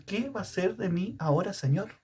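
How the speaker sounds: a widow's prayer, lightly voiced and lifted in pitch; anguished prayer. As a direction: ask God what will become of you. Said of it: "esa era su oración ante el Señor".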